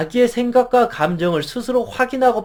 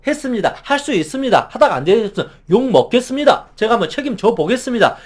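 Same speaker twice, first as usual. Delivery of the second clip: higher, brisk decisive reply; crisp and confident; 3 semitones higher, faster than usual. Shown as a demonstration. Employee answering boss, brisk confident reply. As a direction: sound clean and sure even if afraid. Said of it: "이렇게 깔끔하게 하는 것이 좋다".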